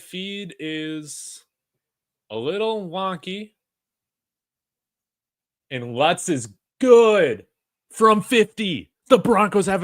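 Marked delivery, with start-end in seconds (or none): 5.7-9.8 excited call. Real, not acted. Fan calls made field goal.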